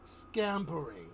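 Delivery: a hint of the Joker, slow and menacing. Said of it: "Joker says".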